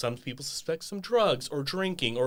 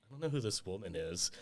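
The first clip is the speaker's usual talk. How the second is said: dismissive quote; 5 semitones lower, 13 dB quieter than usual. Retold or imitated. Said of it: "just said".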